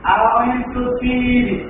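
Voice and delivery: "I want to see" very slow, "see" drawn far out; stretched long vowels. Shown as a demonstration. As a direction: stretch "see" like a native speaker. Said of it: "অনেক long করে বলে".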